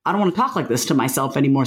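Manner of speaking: brisk resolute repeat; quick firm repeat. Shown as a demonstration.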